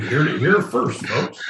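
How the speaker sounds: mock echo of co-host; lightly parodied catchphrase; imitating co-host's repeat. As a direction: throw the catchphrase back, lightly mocking. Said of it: "Like that".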